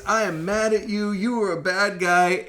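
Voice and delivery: lightly imitated indignant scolding; mock scolding. Lady wagging a finger in Sam's face, mock scolding. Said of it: "this lady is fingering Sam's face".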